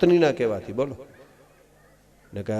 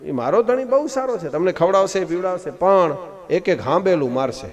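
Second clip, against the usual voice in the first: higher pleading wife's voice; wife's tearful warning; 3 semitones higher than usual. Retold or imitated. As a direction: pitch it up like a wife lamenting to guests. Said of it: "ભેણ, પણ કરો".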